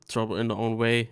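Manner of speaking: ordinary talk, nothing marked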